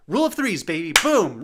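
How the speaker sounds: high, loud boastful whoop; gloating cheer. Acted. Percy gloats about his own plan, loud boastful whoop. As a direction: crow about your genius.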